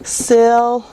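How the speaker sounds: syllable broken into sil, leh, bull; syllable with long pauses between its three parts; sounded out for spelling. Shown as a demonstration. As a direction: sound out syllable in slow, separate chunks. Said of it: "A lot of kids will spell it".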